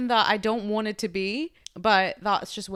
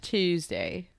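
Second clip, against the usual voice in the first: British accent attempt; 4 semitones lower, 5 dB quieter than usual. Shown as a demonstration. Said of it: "That's a good one".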